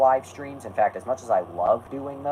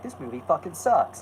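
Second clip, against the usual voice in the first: mildly testy, raised-pitch gripe; mock testy complaint; 5 semitones higher than usual. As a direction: put on a touch of irritation. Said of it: "I'm getting all testy about it".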